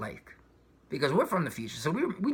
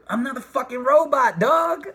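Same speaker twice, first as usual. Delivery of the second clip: loud, high protest; rising indignant yell; loud outburst; 7 semitones higher, 7 dB louder than usual. Real, not acted. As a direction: shout it out, indignant. Emphatic outburst.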